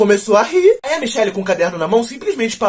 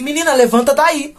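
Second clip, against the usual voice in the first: playing innocent; 5 semitones higher than usual. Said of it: "eu fiz o sonso".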